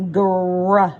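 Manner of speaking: "Gr-" said alone, loud and clipped, only the g-r blend; isolated sound. Shown as a demonstration. Teacher isolates the opening blend for the child, loud. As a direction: give just the "Gr-" sound, cut off before the vowel. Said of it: "listen for the first two sounds".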